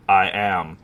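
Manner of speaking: low, understated deadpan reply; Hannibal Buress. Retold or imitated. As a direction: lightly imitate a comedian's low-key answer. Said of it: "is, like, literally how he said it".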